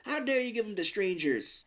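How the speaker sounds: high, mock-indignant scolding; hammed-up scolding, falling at the end; Betty White, pissed off. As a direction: imitate an outraged wife, pitched high. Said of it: "Betty White's so pissed off at that".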